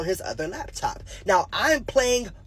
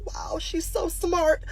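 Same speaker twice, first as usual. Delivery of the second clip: awestruck; 8 semitones higher than usual. Retold or imitated. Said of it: "I'm like".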